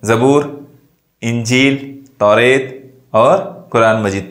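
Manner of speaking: measured list, brief halts after "ज़बूर" and "इंजील"; slight comma pauses. Shown as a demonstration. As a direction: set "ज़बूर", "इंजील" and "तौरेत" apart one by one. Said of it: "मामूली तौक़ुफ़ के लिए".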